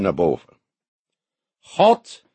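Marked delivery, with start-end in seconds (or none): 1.6-2.2 high, loud preacher's cry; booming pulpit call. A narrator's reading. Pastor booming out to funeral mourners. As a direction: raise the voice to the heavens. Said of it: "sprak hij met grote stemverheffing".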